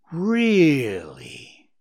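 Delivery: pleased, drawn-out purring voice. Narrator voicing the owl answering Bambi, purring. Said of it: "The owl purred".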